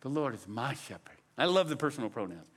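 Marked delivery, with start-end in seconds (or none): 0.0-1.2 quiet reading that puts the weight on "my"; stress on MY. Shown as a demonstration. Preacher shows congregation the usual reading, stress on MY. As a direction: lean on MY in "my shepherd", low and soft. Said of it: "in the way we read it often".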